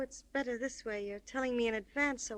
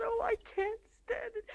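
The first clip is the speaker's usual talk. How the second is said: crying; 5 semitones higher than usual. Acted. Cries over ruining him.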